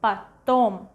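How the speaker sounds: "потом" said pa-TOM; "потом" with reduced first vowel, stressed TOM; unstressed O as A. Shown as a demonstration. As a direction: model "потом" with an A in the first syllable. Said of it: "we pronounce as A".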